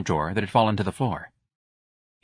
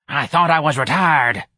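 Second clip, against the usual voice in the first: put-on higher, louder cranky old-lady voice; bewildered old woman; 6 semitones higher, 5 dB louder than usual. A narrator's reading. Old clerk protesting she was retired.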